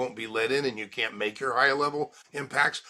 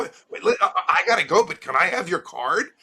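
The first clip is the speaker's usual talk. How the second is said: high, loud and eager; hammed-up, desperate to get the card; eager rush; 6 semitones higher, 6 dB louder than usual. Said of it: "they turn their head like that and they go".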